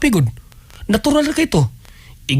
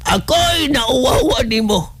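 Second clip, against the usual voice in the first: mock shame shout; 3 semitones higher, slower than usual. Comic scolding at the mortician.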